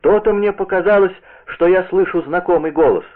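high, excited cry of delight; overjoyed to recognise a familiar voice; joyful recognition. Acted. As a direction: pitch climbs as the old man's delight spills out. Old man joyfully recognises the visitor.

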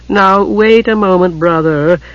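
calm his angry brother down; mollifying tones. A narrator's reading. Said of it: "in mollifying tones".

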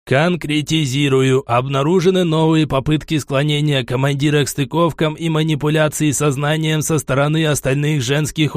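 measured, flat android report; robot voice. Acted. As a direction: report like a cold machine.

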